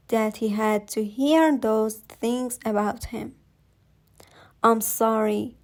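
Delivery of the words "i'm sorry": whisper. Acted. Mother apologizing to ghost son.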